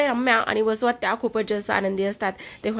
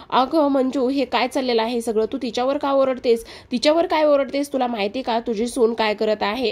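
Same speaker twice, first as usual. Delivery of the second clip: scolding; 3 semitones higher than usual. Acted. Mother scolds Manju for shouting at her daughter-in-law, raised voice. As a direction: tell her off sharply for yelling.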